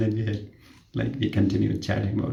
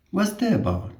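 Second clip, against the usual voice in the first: high, puzzled asking; asking what it means, pitched up; confused question; 11 semitones higher than usual. Retold or imitated. Nurse asking patient confusedly, high puzzled tone.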